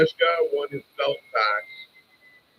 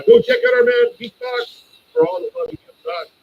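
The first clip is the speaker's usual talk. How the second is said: hyped shout-out; 7 dB louder than usual. Real, not acted. Shouting out a supporter.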